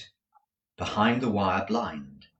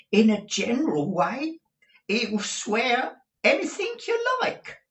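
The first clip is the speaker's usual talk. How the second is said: high, stuffy voice of a man with a cold; hesitant client with a heavy cold; 5 dB louder than usual. A narrator's reading. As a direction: sniffle it out. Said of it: "voice of a sufferer from a constitutional cold".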